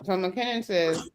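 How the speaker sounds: talking with fingers in mouth; muffled by fingers in the mouth. Real, not acted. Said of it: "I got fingers in my mouth".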